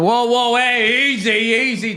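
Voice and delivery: lightly acted calming-down plea; mock alarmed protest. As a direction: pitch it up, as if backing someone off. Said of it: "then they went".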